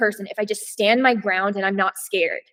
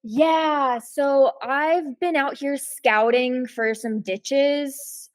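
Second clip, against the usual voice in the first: acting creepy; 3 semitones higher, much slower than usual. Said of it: "I'd be like".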